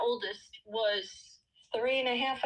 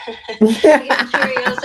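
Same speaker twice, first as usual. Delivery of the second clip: laughing, louder and slower; 2 semitones higher, 8 dB louder, slower than usual. Real, not acted. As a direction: say it through a laugh. Repeats line laughing louder.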